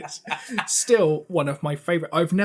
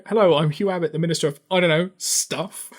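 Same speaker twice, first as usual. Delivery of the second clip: lightly voiced pompous minister, a bit louder; mock minister introduction; 5 dB louder than usual. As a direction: introduce yourself like a clueless minister. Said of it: "You know".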